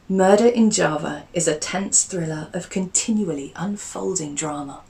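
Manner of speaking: dramatic trailer-style book blurb; blurb read. Acted. Narrator pitching the book to listeners, dramatic blurb voice. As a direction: sell the thriller, building tension.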